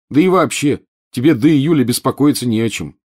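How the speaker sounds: nervous complaint. A narrator's reading. Ron tells Harry he needn't worry yet, rattled complaining. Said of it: "пожаловался разнервничавшийся Рон".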